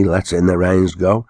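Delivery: ordinary delivery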